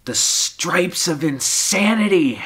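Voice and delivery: high, slow, drawn-out dramatic swell; theatrical madness. Acted. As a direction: stretch it upward as if losing your mind. Dramatic peak of dark poem.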